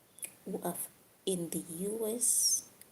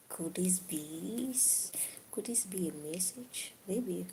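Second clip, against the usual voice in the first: whispered, slow, wondering aloud; mock mysterious whisper. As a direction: hush it like an omen. Mock pondering a sign from fate.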